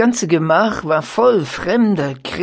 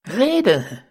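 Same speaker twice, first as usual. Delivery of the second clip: shouted, higher and louder; the whole gang yells the order; geschrien; 5 semitones higher, 4 dB louder than usual. A narrator's reading. Ganzer Schwarm schreit die Baronin an. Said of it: "schrie der ganze Schwarm".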